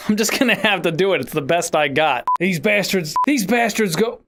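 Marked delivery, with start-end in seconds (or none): 2.4-4.2 lightly voiced Southern impersonation; Buck. Shown as a demonstration. Voice actor struggling with Buck's line, bad Southern impression. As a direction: have another clumsy go at a Southern character voice. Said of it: "I'm such a bad voice actor".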